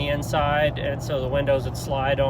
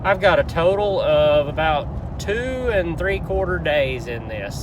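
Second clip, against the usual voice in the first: talking while driving over potholes; on a bumpy road; 4 semitones higher, 5 dB louder than usual. Real, not acted. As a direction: voice jolted by a bumpy ride. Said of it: "Sorry about the bumpy roads".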